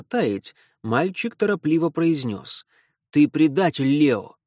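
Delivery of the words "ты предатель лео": loud blurted accusation. Acted. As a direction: blurt it out fast. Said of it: "выпалил он".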